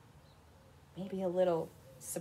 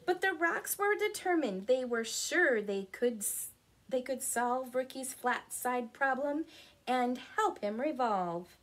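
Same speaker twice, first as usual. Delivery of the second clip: animated picture-book narration; story reading; 3 semitones higher, 5 dB louder than usual. A narrator's reading. Telling children of the determined rocks, lively storytelling. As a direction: read it out clearly to young children.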